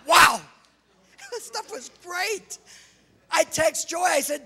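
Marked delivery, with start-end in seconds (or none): 0.1-0.5 loud, high-pitched shout of amazement; amazed. Retold or imitated. Man raving to church about the meat he ate, amazed. Exclaims over the tasty meat. 1.3-2.6 high, drawn-out rave; slow, high-pitched gushing over food; raving. Retold or imitated. Man raving to church about the meat, thrilled.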